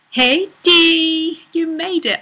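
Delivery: high, loud delighted hello; joyful high greeting; excited greeting. Real, not acted. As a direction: greet her like a long-lost friend.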